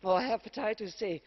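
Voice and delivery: winded from climbing stairs; breathless after running upstairs; out of breath. Real, not acted. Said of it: "I'm, uh, out of breath running up those stairs".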